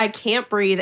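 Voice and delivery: put-on, mock-annoyed, pissed-off tone. Retelling your mom leaving the store, imitating a pissed-off mom. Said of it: "she'd be so pissed leaving the store".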